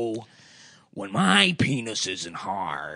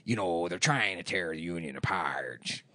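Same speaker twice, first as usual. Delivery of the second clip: Pacino as Hoffa; 6 semitones lower, 6 dB quieter, faster than usual. Retold or imitated. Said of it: "he sounds like a pirate".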